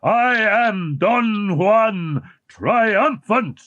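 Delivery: a deformed man boasting, stretched out; mock roar. A narrator's reading. Eric proclaiming himself Don Juan, slow and grand. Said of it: "he roared".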